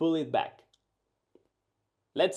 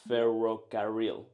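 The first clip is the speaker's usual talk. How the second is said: English speaker accent; 5 semitones lower than usual. Shown as a demonstration. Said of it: "English speakers roll their R's like this".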